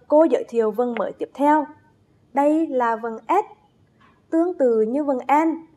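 ordinary talk, nothing marked

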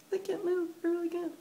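laughing in stiff mask. Real, not acted. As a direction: giggle while your face can't move.

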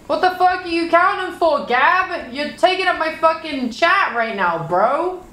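indignant, high-voiced complaint; exasperated scolding. Real, not acted. Scolding chat spammers for counting.

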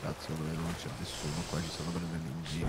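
low, fast grumble under the breath; hushed, hurried suspicion; quiet aside. Real, not acted. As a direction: say it quickly to yourself, very softly. Suspicious aside during the game search.

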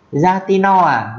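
"Ra ti no à?" cao hẳn và chậm; hỏi bằng tiếng Mường, giọng lên cao, kéo dài; Mường question. Shown as a demonstration. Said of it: "tiếng Mường". (câu hỏi Mường cao, chậm rãi)

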